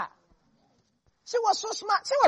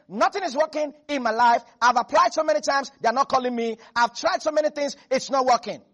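complaining believer; 2 semitones higher, 5 dB louder than usual. Retold or imitated. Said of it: "That's like you saying".

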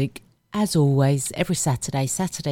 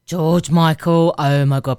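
excited; 6 dB louder than usual. Real, not acted. Gushing over favourite singer.

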